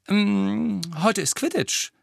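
deutlich höher und lauter, voller Vorfreude; vergnügt. A narrator's reading. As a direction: freu dich hörbar auf das Spiel. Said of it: "sagte Harry vergnügt". (vergnügt und hoch gesprochen)

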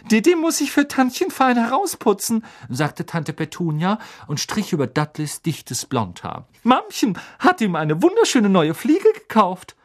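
high, cooing mother voice; doting aunt. A narrator's reading. Aunt fussing over Dudley, doting. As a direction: coo over the spoiled son.

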